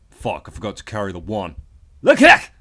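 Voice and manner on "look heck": alien shout. Acted.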